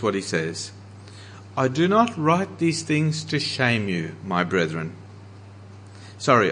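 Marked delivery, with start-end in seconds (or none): 1.6-4.9 loving and gentle. Acted. Paul writing tenderly to the Corinthians, gentle and loving. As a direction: speak it like a loving father. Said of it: "in such a loving and gentle way".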